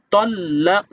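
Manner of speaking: তল্লাক with a bouncing echoed ক at the end; qalqala echo. Shown as a demonstration. Teacher shows qalqala on তল্লাক for students. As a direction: let the ক of তল্লাক rebound. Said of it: "কলকলা করে পড়তে হবে".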